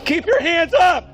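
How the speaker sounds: shouting commands. Real, not acted. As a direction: bark each order slowly at gunpoint. Officer yelling commands at gunpoint.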